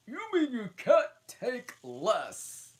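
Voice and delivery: high, loud put-on voice, slow; impatient Hatter. Hatter hurrying the Dormouse, high and loud. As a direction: snap at him to hurry.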